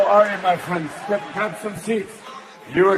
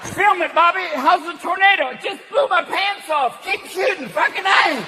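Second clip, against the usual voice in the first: redneck filming tornado; 10 semitones higher than usual. Retold or imitated. Redneck shouting at Bobby during a tornado. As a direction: yell at Bobby to keep filming. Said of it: "Two fuckers are like".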